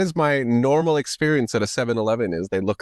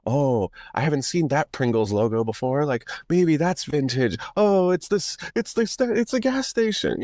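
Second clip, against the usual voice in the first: mock discovery; 5 semitones higher than usual. Imagined emailer's inner voice.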